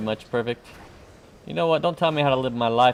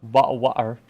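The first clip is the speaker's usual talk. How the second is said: badly attempted British accent; 2 semitones lower than usual. Shown as a demonstration. Streamer showing they fail at British, poor British accent. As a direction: have a clumsy go at British pronunciation. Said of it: "I suck at it".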